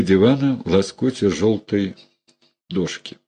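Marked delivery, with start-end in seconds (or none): none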